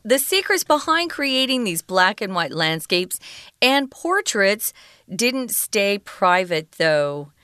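slow, careful reread of the phrase; slow reading. Shown as a demonstration. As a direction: read it back slowly for learners.

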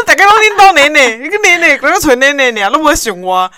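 high, loud mock-indignant brother; whiny loud complaint. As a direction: mimic the brother protesting he's ignored.

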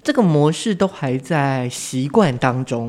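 speaking through a face mask; muffled behind a mask. Real, not acted. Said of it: "我们现在就是要戴着口罩录音啊".

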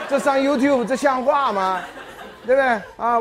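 high loud rhetorical outrage; indignant exclaim. Real, not acted. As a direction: protest as if it were a scandal. Mock outrage at own reply.

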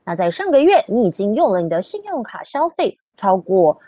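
Mandarin robot reading. Pretend. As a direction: stiff machine voice in Chinese. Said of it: "I'm trying to use the Chinese version of the robot voice".

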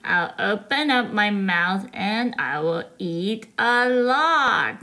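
a hint of a lazy-paced animal voice; crocodile. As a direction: take it slightly low and unhurried. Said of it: "he saw a crocodile".

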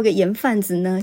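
ordinary delivery

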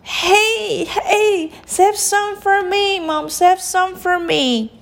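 put-on very high, squeaky child voice; high-pitched pleading; eager little princess. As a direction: beg excitedly like a small child. Princess begs Mom for eggs.

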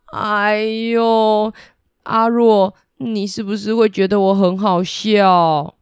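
lightly voiced embarrassed god; river god admitting his pride to the sea spirit; humbled river god. 河伯 humbled, confesses.

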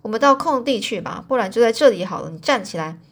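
angry. Acted. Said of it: "就很生气了".

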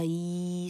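E held long as the end point of the glide; 拆音示范. Shown as a demonstration. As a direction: stretch out a pure "ee" for E. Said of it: "还要走到E". (把E拉长念成“衣”)

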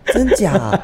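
high disbelieving question; surprised. Real, not acted. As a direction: ask it in sheer disbelief. Surprised at voice change.

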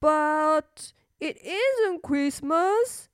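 slow, patient mother; gentle mother voice. Acted. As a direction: explain slowly like a mother. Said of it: "said her mother".

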